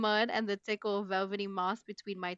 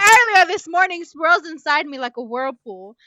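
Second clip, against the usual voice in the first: much higher and much louder, overacted panic; mock-dramatic shout; 8 semitones higher, 16 dB louder than usual. Reading the panic line to her laughing friend, hammed-up shout. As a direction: shout the panic like a soap opera.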